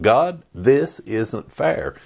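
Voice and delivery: slow, whining protest to God; mock whining prayer; whiny complaint. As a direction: complain like a sulking prophet.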